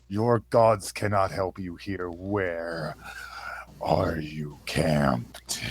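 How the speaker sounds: slow eerie whispered threat; menacing whisper. Acted. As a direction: breathe the question slowly and darkly. Threatening captive, spell active.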